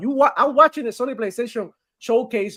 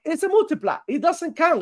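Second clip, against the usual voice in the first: higher-pitched babyish fanboy imitation; pitched-up mock whine; mock baby whining; 7 semitones higher than usual. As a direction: mimic a fanboy complaining like a baby. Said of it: "Like a baby".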